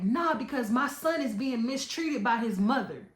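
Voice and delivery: mock outraged refusal to back down; retold angry protest. Father accusing the baby's mother of mistreatment, imitated indignation. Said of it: "he starts yelling louder".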